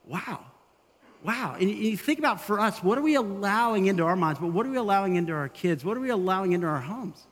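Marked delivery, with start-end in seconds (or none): 0.1-1.6 stunned wow. Retold or imitated. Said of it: "you're like".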